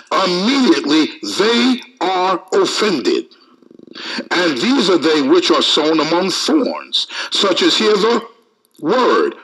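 measured, emphatic Bible reading; deliberate preacher's reading with weighted words; scripture reading. Acted. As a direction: read the verse out to a congregation. Reads scripture aloud to congregation.

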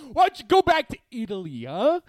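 high fast taunt. Pretend. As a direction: needle him hard. Mock feud between hosts.

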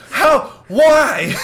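high, loud, hammed-up wail; Danzo. Shocked at another being named Hokage, melodramatic wail. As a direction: cry out in mock anguish. Acting Danzo's dismay in close-up.

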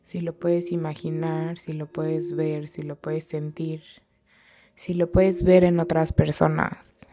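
calm, measured meditation guide with long pauses; guided meditation. Real, not acted. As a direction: guide them gently inward, leaving space between phrases. (meditación guiada, tranquila y pausada)

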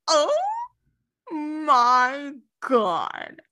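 swooning fangirl gush; giddy squeal. Retold or imitated. Fan squealing as the scene fades to black.

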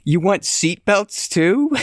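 mock outraged question. Mock indignation at reviewer.

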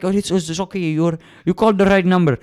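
high, lightly voiced reassuring agent; a hint of a smooth phone scammer; mock support lady. Scam agent soothing the caller, high mock reassurance. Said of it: "she's like".

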